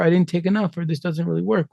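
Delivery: high, put-on voice of a puzzled beginner; lightly mocking, puzzled; mock confused user. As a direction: play the flustered newbie. Mocking confused microdoser quote.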